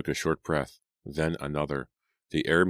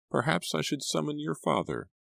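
worried housekeeper; 12 semitones higher than usual. A narrator's reading.

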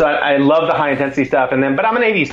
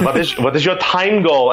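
higher-pitched put-on German accent; 4 semitones higher than usual. German pro quizzing an amateur before the race, German accent. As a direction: lightly imitate a German asking earnestly. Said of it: "it's this German accent".

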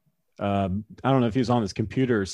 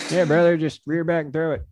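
Josh Hader impression; 5 semitones higher than usual. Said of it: "He's like".

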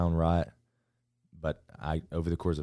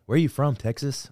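curious Californian; 8 semitones higher, 5 dB louder than usual. Retold or imitated. Imitating Californians asking.

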